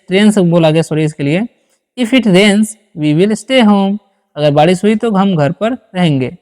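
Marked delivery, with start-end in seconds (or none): 2.0-4.0 each word spaced out slowly for students; slow dictation. Shown as a demonstration. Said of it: "ठीक है". (धीमे-धीमे बोलकर लिखवाना)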